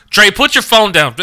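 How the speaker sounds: high, loud and drawn-out retold order; exasperated scolding. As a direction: re-enact yelling at a distracted friend, slowly. Re-enacting scolding a distracted friend.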